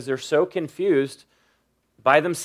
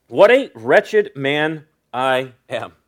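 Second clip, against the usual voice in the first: very slow, drawn-out declaration; slow reading; slower than usual. Real, not acted. Preacher reading out Paul's conclusion, slowly and deliberately. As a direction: stretch each word of the verse. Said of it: "read it pretty slow".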